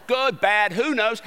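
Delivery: put-on rabbi's New York Jewish accent. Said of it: "do it with a Jewish accent now".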